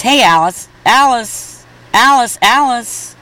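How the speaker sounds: rising calls to get attention; repeated calls for Alice; calling out. Acted.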